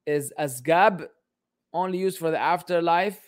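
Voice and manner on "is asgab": asgab read out slowly, every sound drawn out; slow puzzled reread; slow careful reading. Shown as a demonstration.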